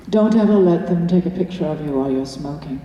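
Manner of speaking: lightly voiced forties movie star, a hint of haughty English accent; glamour queen voice. Actress imitating her co-star's glamorous forties film-star voice. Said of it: "So she talked like this".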